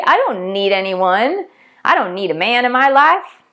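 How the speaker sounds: put-on a light Southern accent, self-assured. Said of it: "went into that Southern accent".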